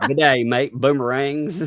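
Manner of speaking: badly faked Australian greeting; Australian accent. Imitating the caller for laughs, mock Aussie accent. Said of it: "worst Australian accents".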